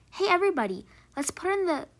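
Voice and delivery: rally the gang with a shout; calling out. A narrator's reading. The boy calls everybody to lock Margot away, loud call.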